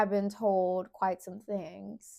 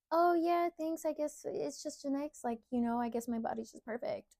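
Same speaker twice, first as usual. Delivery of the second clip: mock fake modesty; 6 semitones higher than usual. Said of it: "I'm not going to sit here and be like".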